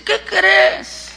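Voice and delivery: high, eager teasing question; anuncio juguetón. Acted. Abraham trae una noticia a Sara. (pregunta aguda y entusiasmada)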